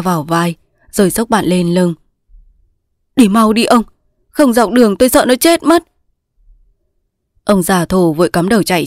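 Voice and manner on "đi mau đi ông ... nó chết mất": urgent. A narrator's reading. Hurrying guide to save dying friend.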